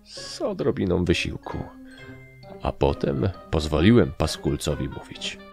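ordinary delivery, nothing marked

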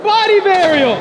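loud, high, stretched-out call; high announcing yell; shouted trick call. Real, not acted. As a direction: bellow the trick name across the park. Calling out a trick loudly.

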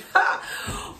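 short breathy burst of laughter; giddy laugh mid-sermon; excited laugh. Real, not acted. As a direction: let a laugh escape from excitement. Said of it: "I'm getting excited".

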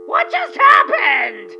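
loud baffled disbelief; stunned. Acted. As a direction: reel at the sudden silence. Caller vanished mid-argument.

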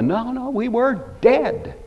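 high, slow insistence; emphatic correction. Real, not acted. Preacher rejects turning over a new leaf, emphatically correcting. Rejecting the self-improvement idea.

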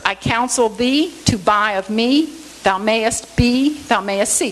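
slow, measured "I counsel thee to buy of me", every other syllable accented; alternating accents. Shown as a demonstration. Teacher reciting the verse to show rhythm, alternating accents. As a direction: beat out "thou mayest be, thou mayest see" in alternating stresses. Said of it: "the accents alternate".

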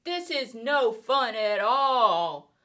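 a fish grumbling in the air; complaining fish. Acted. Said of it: "said the fish".

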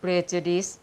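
"prejudice" sounded out slowly; careful pronunciation. Shown as a demonstration. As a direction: say "prejudice" slowly, testing how it is pronounced. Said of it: "อ่านออกเสียงว่า".

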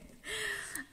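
short high giggle; delighted laugh. Real, not acted. Streamer after thanking a viewer, delighted giggle. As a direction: giggle lightly, high in pitch.

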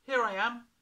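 put-on high, loud boy's voice; a small boy calling out Here I am; young boy. A narrator's reading. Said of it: "he said".

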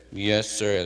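lightly voiced humble servant; a touch of a dutiful "Yes, sir."; mild obedient reply; polite yes sir. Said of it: "They're going".

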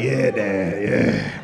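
delighted son telling his dad; happy son. Retold or imitated. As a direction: beam with pride at finding your thing. Son excited about job.

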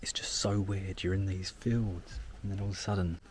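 whisper. Real, not acted. Walking quietly into a village.

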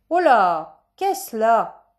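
loud, alarmed exclamation; startled stage father. Acted. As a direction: cry out in sudden alarm. Father alarmed by fallen child. (exclamation forte de père alarmé)

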